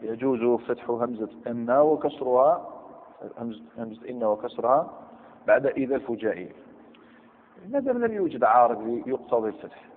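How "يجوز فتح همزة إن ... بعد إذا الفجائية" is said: quoting the grammar text slowly; slow rising recital of the rule; slow text reading. Shown as a demonstration. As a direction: read the rule out deliberately. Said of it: "يقول لك أنا".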